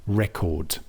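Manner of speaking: Record as a noun, REC-ord, falling; weight on REC, let the rest of Record drop; strong first syllable and weak second in Record; stress on first syllable. Shown as a demonstration. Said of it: "the stress on the first syllable".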